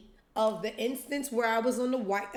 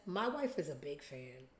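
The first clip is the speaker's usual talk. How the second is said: husband voice; 3 semitones lower, 6 dB quieter than usual. Retold or imitated. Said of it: "The husband says".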